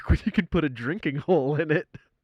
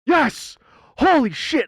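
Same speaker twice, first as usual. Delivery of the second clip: excited; 12 semitones higher, 7 dB louder, slower than usual. Real, not acted. Cork comes out.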